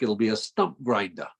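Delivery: lightly imitated Texas accent; a hint of a Texas accent. Quoting the guest's saying back to him in a mock Texas accent. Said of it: "in your wonderful, uh, Texas accent".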